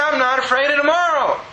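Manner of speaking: high, insistent excited cry; retold happy bawling. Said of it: "I'm still bawling".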